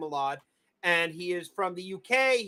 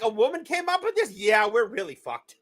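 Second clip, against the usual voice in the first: mock shocked; 3 semitones higher, 4 dB louder than usual. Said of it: "it was more like".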